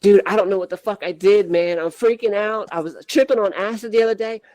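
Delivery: a mild take on a rattled friend, pitch climbing; panicked Chad. Retold or imitated. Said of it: "He's like".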